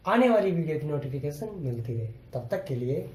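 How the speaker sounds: fast sign-off asking to subscribe; youtube outro. Acted. Teacher signing off to viewers, fast outro. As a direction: rattle through the like and subscribe pitch.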